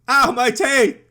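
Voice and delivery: high loud yelp of pain; mock pained yelp. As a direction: yelp as teeth hit plastic. Bites plastic fruit, hurts teeth.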